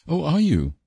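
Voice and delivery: lightly voiced courteous reply; polite. A narrator's reading. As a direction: answer with polite, mild interest. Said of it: "said Anne politely".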